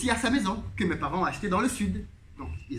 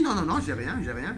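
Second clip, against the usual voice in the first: airy laughing no, no, no, then it drops off; laughing denial; 3 semitones lower than usual. Retold or imitated. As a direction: colleague laughs off his empty account, laughing dismissively. Colleague laughs off having nothing.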